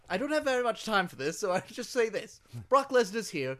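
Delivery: curt British manager; hint of a prim British manager; British businessman accent. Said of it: "like, a British businessman".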